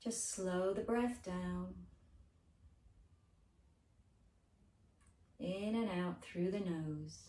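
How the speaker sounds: unhurried guided breathing voice; gentle meditation lead with lingering phrases; guided relaxation. Acted.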